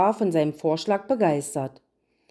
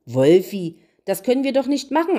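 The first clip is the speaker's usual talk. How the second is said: higher, fast scolding; stern; 4 semitones higher, 4 dB louder than usual. Acted. The queen sternly tells the wolf off, higher and quick. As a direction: scold him quickly and firmly. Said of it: "antwortete sie streng".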